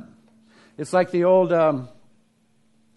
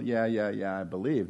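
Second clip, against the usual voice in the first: low, soft offhand "yeah"; mock casual believer; dismissive shrug; 7 semitones lower, 6 dB quieter than usual. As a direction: toss it off carelessly. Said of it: "It's not just like a mental".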